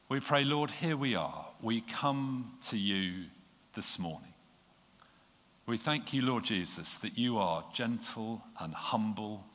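prayer. Real, not acted. Leads prayer.

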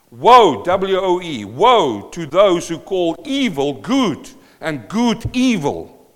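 loud, slow, drawn-out proclamation; proclaiming loud. Acted. Preacher crying woe over the nation, loud and slow. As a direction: cry woe out loud like a prophet.

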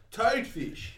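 high, loud Australian call; Australian accent. Shown as a demonstration. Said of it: "What's Australian?".

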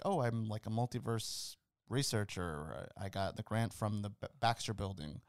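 understated, offhand retelling of a character; throwaway line. Retold or imitated. Fan quotes a character's passing clue, throwaway. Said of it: "says that in a throwaway line".

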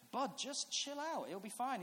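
slow, emphatic reassurance; dad calming son. Retold or imitated. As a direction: talk down a worked-up kid.

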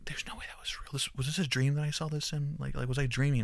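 whispered disbelief, half to self; hushed disbelief. Retold or imitated. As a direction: whisper it like doubting your own eyes. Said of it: "I was like".

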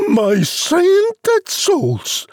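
very high, excited bossy mother; whoop, then order the boy about at high pitch; hammed-up high-pitched mum yell; yelling out loud. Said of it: "She yells out loud".

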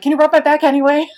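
cheeky laughing request; laughing plea. Retold or imitated. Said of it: "And I'm like".

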